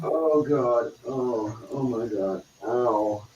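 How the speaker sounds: groans of real pain; pained groaning. Real, not acted. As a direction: moan through the ache. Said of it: "in agony".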